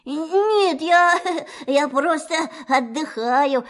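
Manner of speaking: high, slow, forced cheerful voice. Acted. Stuck Pooh pretends to Rabbit he is fine, forced cheer. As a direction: sound jolly while stuck. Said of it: "стараясь говорить весёлым голосом".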